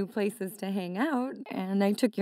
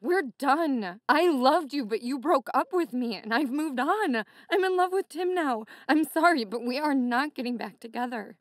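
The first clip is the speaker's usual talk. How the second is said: firm; 4 semitones higher than usual. Acted. Firm breakup speech.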